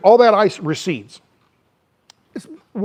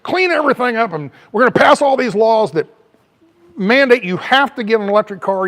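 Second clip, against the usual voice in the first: louder, mocking Biden's promises; 3 semitones higher, 5 dB louder than usual. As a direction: lampoon the president, loud and fast. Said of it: "So here's Biden. He comes in and says".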